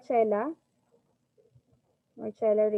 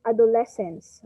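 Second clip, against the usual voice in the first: "adolescence" with the third syllable, LES, stressed; 5 dB louder than usual. Shown as a demonstration. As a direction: lean firmly on LES in "adolescence". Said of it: "proper way on how we pronounce".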